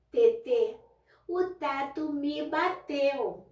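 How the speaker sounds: lightly voiced toddler; small child voice. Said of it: "olha pra mim e fala". (criança pequena, fala lenta e um pouco aguda)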